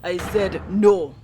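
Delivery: slow, loud Russian rebuff; angry Russian sailor. Acted. The sailor losing patience with the hero, in a slow, loud Russian accent. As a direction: shut the question down hard, Russian accent.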